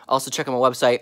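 chewing while talking; mouth full. Real, not acted. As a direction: talk round a chip. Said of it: "I'm still trying to chew this chip".

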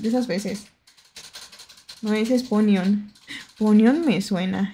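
normal talking voice

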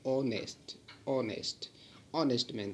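ऑनेस्ट said with no h, opening on the vowel "o"; ऑनेस्ट clearly pronounced "onest"; silent h in honest. Shown as a demonstration. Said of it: "इसका जो pronunciation है, होता है वो ऐसे निकलता है".

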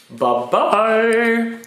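high squeaky bye-bye; squeak at phrase ends. Real, not acted. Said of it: "the little squeak at the end there".

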